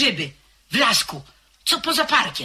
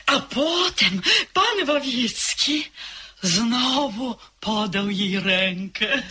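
slow knowing laugh; slower than usual. Acted. Servant hinting at a romance.

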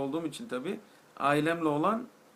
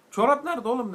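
incredulous yell; 8 semitones higher, 8 dB louder than usual. Retold or imitated. Interrogating the German tourist.

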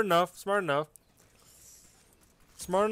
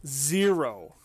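raging gamer; 3 dB louder, slower than usual. Real, not acted. Raging at the hit on him.

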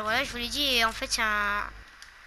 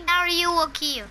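mock Ayuwoki; 4 semitones higher, 3 dB louder than usual. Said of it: that it's a famous singer's "Ayuwoki".

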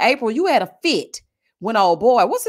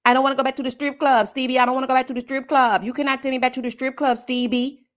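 mock Jocelyn; 2 semitones higher, faster than usual. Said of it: "You are giving".

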